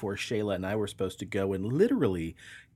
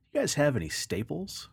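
innocent duck; 6 semitones higher than usual. Acted. Joke, duck's setup.

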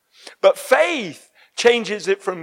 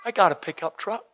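put-on light Southern accent; 3 semitones lower, 5 dB quieter, faster than usual. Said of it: "that sounded a bit southern".

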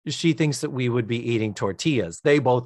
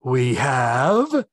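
deadpan. Retold or imitated. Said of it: "beautifully deadpan".

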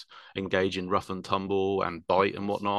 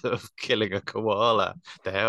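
trying not to laugh; suppressed laughter. Real, not acted. Admitting a grim detail about the puma, suppressed laughter. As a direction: say it through a guilty little laugh. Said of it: "I shouldn't laugh at that".

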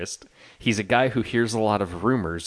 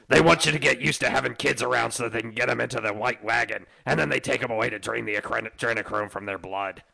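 conspiracy rant; 3 semitones lower, 5 dB quieter than usual. Acted.

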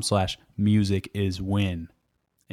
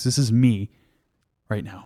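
beatboxing. Pretend. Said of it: "I was beatboxing".

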